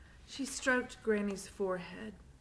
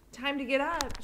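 calling out; 8 semitones higher, 6 dB louder than usual. Acted. Lena wakes Granny, calling.

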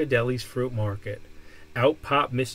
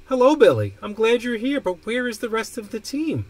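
put-on kindly old man voice; 8 semitones higher, 6 dB louder than usual. Mister Peabody greets Billy.

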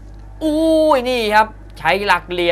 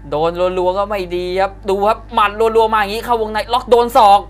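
building excitement; 4 semitones higher, 3 dB louder than usual. Real, not acted. Live call, elbow lands.

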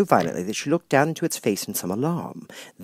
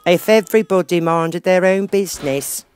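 higher, louder, rasping growl of a rude duchess; hoarse growl; 8 semitones higher, 8 dB louder than usual. A narrator's reading. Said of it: "said the Duchess in a hoarse growl".

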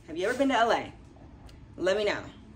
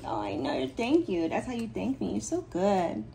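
usual speaking voice

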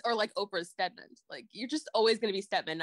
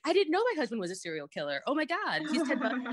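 mock clueless wife; 3 semitones higher than usual. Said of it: "a woman in Alan's role who's like".

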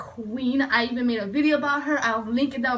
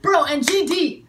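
loud, drawn-out fan exclamation; excited insistence; 3 semitones higher, 5 dB louder than usual. Real, not acted. Fan adds another idol to dream collaboration, slow excited exclamation. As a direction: stretch the words out loudly, thrilled.

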